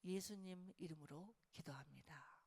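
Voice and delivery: slow whispered prayer close; hushed prayer. Real, not acted. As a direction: whisper the closing prayer gently. Closing prayer softly. (속삭이는 기도)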